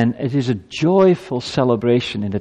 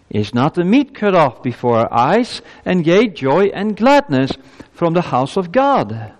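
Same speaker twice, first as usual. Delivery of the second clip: raised, higher-pitched scripture reading; ringing pulpit reading, pitched up; scripture proclamation; 6 semitones higher, 3 dB louder than usual. Acted. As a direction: proclaim the verse to a congregation. Reads scripture aloud to congregation.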